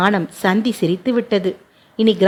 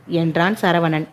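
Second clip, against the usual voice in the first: plain reading voice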